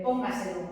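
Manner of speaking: "póngaselo" with the force on PÓN; stress on first syllable. Shown as a demonstration. Teacher showing students a seeming sobreesdrújula, stressed on first syllable of "póngaselo". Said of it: "la fuerza de voz está aquí".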